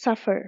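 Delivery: "suffer" stressed on SUF; stress on first syllable. Shown as a demonstration. Teacher giving another example, "suffer" stressed on SUF. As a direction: lean on the opening syllable, SUF-fer, in "suffer". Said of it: "again first syllable stressed".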